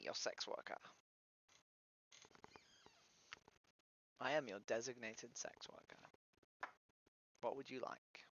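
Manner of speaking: soft, hushed come-on, half whispered; mock seductive hush. Greeting a stranger on video chat with a mock sultry hush.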